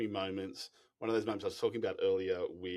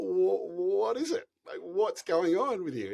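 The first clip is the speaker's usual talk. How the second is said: drawn-out, higher and louder, through laughter; laughing question; 12 semitones higher, 8 dB louder, slower than usual. Retold or imitated. Guide asking the crying hiker, slow and laughing. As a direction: ask gently amused, slow. Asking Fred what he feels.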